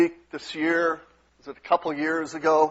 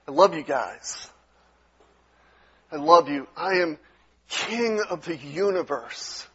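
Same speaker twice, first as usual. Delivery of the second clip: tender voice of God; 5 dB quieter than usual. Retold or imitated. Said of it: "in this kind of tone".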